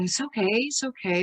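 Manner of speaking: put-on calm the crying baby gently; soothing a baby. Shown as a demonstration. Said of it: "And then we're gonna".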